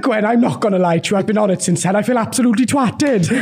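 a lightly voiced hungover Welsh lady; a hint of Doris, unbothered; imitating Doris. Son imitating Doris, lightly voiced. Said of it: "she went".

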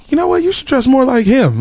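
high, eager mom voice; lightly voiced excited mom. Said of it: "she was like".

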